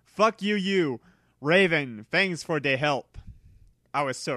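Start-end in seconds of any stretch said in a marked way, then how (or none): 0.0-1.0 sharp high outburst at the flamers; angry curse. Acted. Author snapping at flamers, angry and loud. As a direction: spit it at them, raised.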